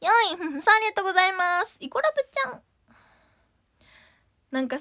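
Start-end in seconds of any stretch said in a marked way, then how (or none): 1.8-2.6 cute high idol voice. Acted.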